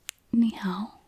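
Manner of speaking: 你好 drawn out slowly for learners; slow demo greeting. Shown as a demonstration. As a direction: say 你好 slowly, syllable by syllable. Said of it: "you'd greet somebody and say".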